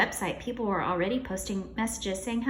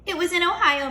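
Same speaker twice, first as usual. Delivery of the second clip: alarmed; 8 semitones higher, 7 dB louder than usual. Acted. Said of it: "Mister Klutz said".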